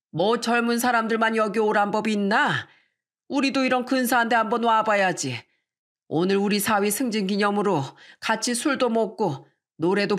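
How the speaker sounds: lightly voiced older man, good-humoured; a hint of a lively elder; proud, jovial father. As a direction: defend yourself cheerfully as the father. Voices the father defending his choice.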